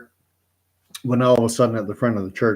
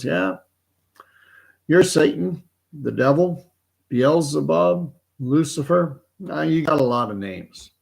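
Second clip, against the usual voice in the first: higher, lightly voiced old geezer; a hint of a cranky old man, unimpressed; unbothered old man; 5 semitones higher than usual. Old man in the pew lists the devil's names, unimpressed.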